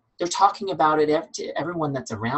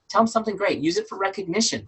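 fired up; 7 semitones higher than usual. Real, not acted. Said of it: "Sorry, I get really fired up".

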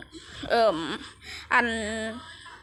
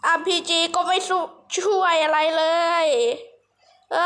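exasperated whine; 2 semitones higher than usual. Real, not acted. Player moans that the RPG is no help, exasperated whine. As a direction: whine it out, stretching the last word. Game weapon fails him.

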